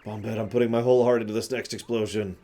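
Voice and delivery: lovesick Bob-omb. Acted. Bob-omb dedicating his next explosion to Bombette, lovestruck. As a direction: proclaim love, stretching out the ending.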